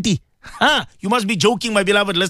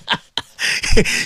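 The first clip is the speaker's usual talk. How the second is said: rueful laugh. Real, not acted. Bitter laugh after sad point.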